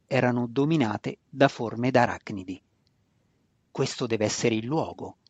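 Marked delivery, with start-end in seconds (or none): 3.7-5.2 lower, softer undertone; murmured. A narrator's reading. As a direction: murmur it to yourself under your breath. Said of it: "mormorò Zack sottovoce".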